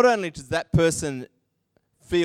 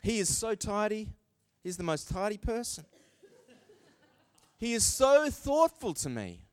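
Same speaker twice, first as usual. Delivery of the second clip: soft praise; 3 semitones higher, 6 dB quieter than usual. Pretend. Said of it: "little examples that I'm throwing out".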